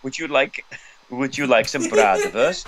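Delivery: hammed-up mock Slavic accent, slow; stupid Slavic accent. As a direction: play the silly Slavic host, drawn out. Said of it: "doing it in a stupid accent".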